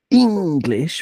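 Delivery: "English" with a long, heavy first syllable; stressed rhythm. Shown as a demonstration. Podcaster showing the rhythm of English, stressed first syllable. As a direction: stretch the ENG of "English". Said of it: "natural rhythm to it based on the stress".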